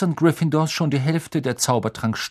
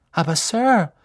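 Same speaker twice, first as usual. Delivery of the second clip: protesting pupil; 6 semitones higher, 4 dB louder than usual. A narrator's reading. Ron protests to Snape.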